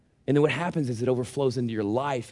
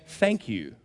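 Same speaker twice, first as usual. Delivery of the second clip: soft mock thank you; 6 semitones lower, 4 dB quieter than usual. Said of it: "you say".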